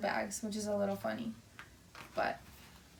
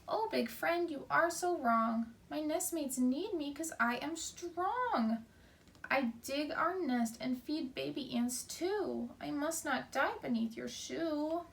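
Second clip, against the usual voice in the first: pleading ant; 3 semitones higher than usual. Acted. Teacher voices ant pleading.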